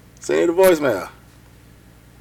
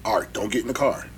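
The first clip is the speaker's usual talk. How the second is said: mock warning; 12 semitones lower, 12 dB quieter than usual. Acting out a film warning.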